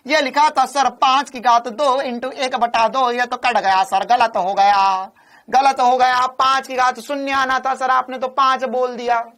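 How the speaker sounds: mock complaint, words stretched out; imitating a student. Student telling sir he got it wrong, mock protest. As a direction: play a student lightly protesting to the teacher. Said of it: "एक बालक बोला".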